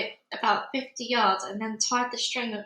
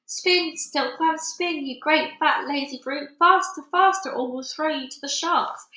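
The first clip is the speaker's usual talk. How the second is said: high, loud bullying shout; 5 semitones higher, 3 dB louder than usual. A narrator's reading. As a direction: yell down at the lazy silkworm.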